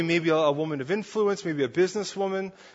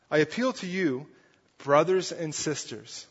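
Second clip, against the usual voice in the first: gentle appeal. Shown as a demonstration. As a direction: ease off, speak to them as family. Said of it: "a familiar term that reminds them of their family".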